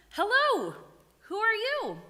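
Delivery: high, loud crowing rooster voice. Acted. Teacher greets the prince in a rooster voice. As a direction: talk like a proud rooster. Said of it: "in his best rooster voice".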